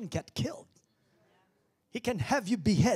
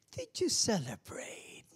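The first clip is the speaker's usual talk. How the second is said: whispered question; 4 semitones higher than usual. Real, not acted. Preacher whispering to the congregation. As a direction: lean in and whisper it.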